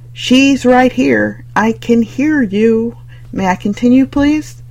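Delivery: slow, stern and pointed; stern teacher scolding. Acted. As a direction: drag each word out like a strict teacher.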